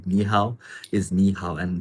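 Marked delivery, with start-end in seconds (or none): 0.1-0.6 "ni hao" said in Mandarin with its tones, careful and clear; Mandarin greeting. Shown as a demonstration. Teacher showing viewers how to say "ni hao". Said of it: "the way you say". 1.1-1.6 "ni hao" said in Mandarin with its tones, careful and clear; Mandarin greeting. Shown as a demonstration. Teacher showing viewers how to say "ni hao". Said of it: "the way you say".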